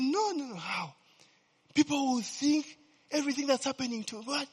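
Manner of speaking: mocking the man. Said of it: "The guy said".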